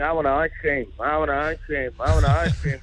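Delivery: lightly voiced kid demanding a treat; whining little kid. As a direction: nag like a child in the back seat. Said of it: "he's like that little kid in the back of your car going".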